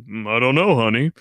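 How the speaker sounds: mock husband. Husband voiced in prank.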